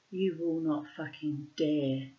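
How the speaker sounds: calm, slow, deliberate warning. Retold or imitated. Patient warning a surgeon before surgery, very calm. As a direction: say it slowly and very calmly. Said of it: "I just very calmly said".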